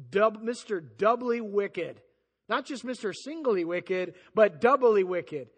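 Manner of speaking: a preacher savouring the scary name; stress on doubly. Real, not acted. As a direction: lean hard on doubly. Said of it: "mocking the name".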